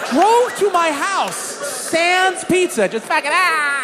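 high, drawn-out exasperation; incredulous rant. Acted. Incredulous rant at driver's blunder.

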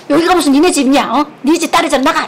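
loud mock yell of an angry mother; mom yelling. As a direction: imitate mom ordering her out. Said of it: "엄마가 뭐라 하냐면". (엄마가 나가라고 소리치는 흉내)

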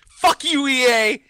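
high, fed-up swear; worn-out customer cursing EA, pitched high; exasperated curse. Real, not acted. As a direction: spit it out at the company, voice jumping up. Venting at EA after seven hours.

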